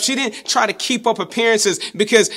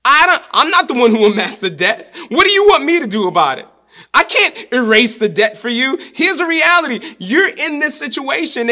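mock brush-off, higher and louder; blunt dismissive prophet; 4 semitones higher, 4 dB louder than usual. Preacher paraphrases Elisha to the widow, mock dismissive. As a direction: toss it back at her like it's not your problem. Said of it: "in regular vernacular".

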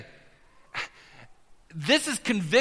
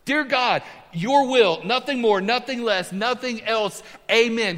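higher and louder, each phrase ringing out; bold prayer; 3 semitones higher, 4 dB louder than usual. Shown as a demonstration. Pastor repeating the prayer to the church, high and ringing. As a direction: proclaim it to the congregation with conviction. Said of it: "Pretty simple".

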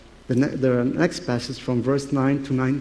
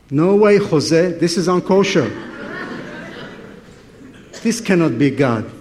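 indignant refusal. Retold or imitated. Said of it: "And he goes".

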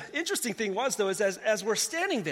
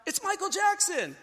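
higher, slow call back across the crowd; mock shout, pitched higher and slow; retold yell back; 9 semitones higher than usual. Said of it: "And I yell back".

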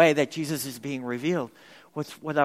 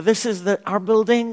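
mock wrong answer; 5 semitones higher, 7 dB louder than usual.

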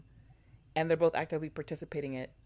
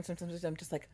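whisper; 6 dB quieter, faster than usual. Real, not acted. Aside about sister.

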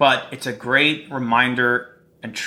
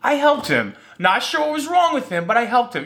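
mock boastful lady; 11 semitones higher than usual. Lady boasting to husband, imagined.

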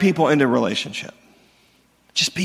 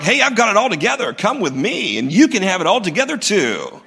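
fake confident pitch. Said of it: "inviting someone ... is not like".

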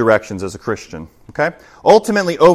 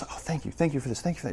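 very soft, hushed gratitude; constantly thankful person; 3 semitones higher, 14 dB quieter, faster than usual. Acted. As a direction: keep murmuring thanks under your breath. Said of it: "somebody who's just thankful all the time".

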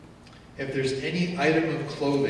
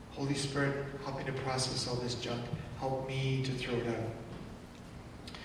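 soft prayer; 7 dB quieter than usual. Retold or imitated. Quoted prayer.

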